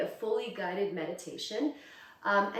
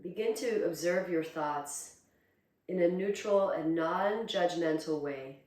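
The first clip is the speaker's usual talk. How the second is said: calm, unhurried meditation guidance with long pauses; guided meditation. Acted. Teacher guiding students to close their eyes and breathe, calm meditation voice. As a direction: ease them inward, leaving space between phrases.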